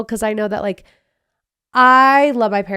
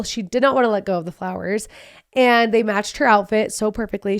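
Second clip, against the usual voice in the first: ordinary delivery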